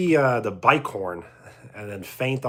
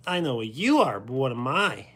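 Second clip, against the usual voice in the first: Pee Wee catchphrase. Acted.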